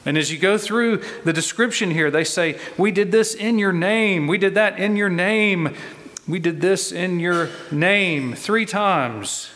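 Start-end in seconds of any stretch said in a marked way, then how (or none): 2.8-8.4 fervent. Retold or imitated. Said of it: "emphasized in strength and repetition".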